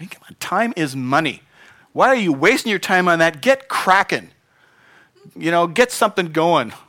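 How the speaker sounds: grumpy cantankerous voice. Preacher acting out God as some people picture Him, as a mock cantankerous boss. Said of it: "like this cantankerous boss".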